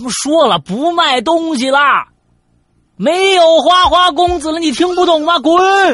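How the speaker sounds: shrill, very high, full-volume impatient angry yell. Speaker retelling the dorm's eldest snapping at someone knocking late, retelling a shout. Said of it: "被老大这一喊".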